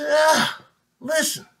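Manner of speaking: high, soft knowing voice; patient wife hushing him; wise wife. Acted. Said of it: "She says".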